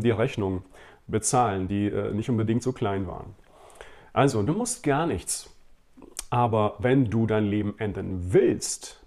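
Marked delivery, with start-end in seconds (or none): 6.3-9.0 weight on the last word, willst, said slowly and firmly; slow sermon line with "willst" hit hard; stress on willst. Shown as a demonstration. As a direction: lean hard into "willst" at the end. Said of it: "Betonung willst".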